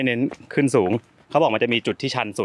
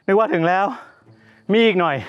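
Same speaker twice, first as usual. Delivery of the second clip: playful high exclaim; 7 semitones higher, 4 dB louder than usual. Real, not acted. Joking about false summit.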